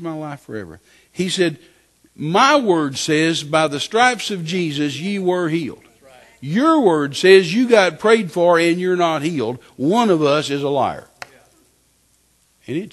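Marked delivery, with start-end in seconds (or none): 2.1-11.1 loud, slow, measured rebuke; displeased voice. Retold or imitated. The Lord correcting the unhealed man, displeased. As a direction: imitate God laying out the case firmly. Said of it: "in a voice that wasn't very happy".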